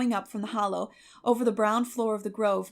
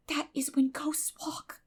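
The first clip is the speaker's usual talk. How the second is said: eerie whisper; 6 semitones higher, slower than usual. A narrator's reading. Eerie hushed remark.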